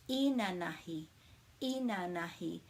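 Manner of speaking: inanahi with stress on the first syllable, I; model pronunciation. Shown as a demonstration. Teacher modelling inanahi for learners to copy. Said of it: "we put the emphasis on the first syllable".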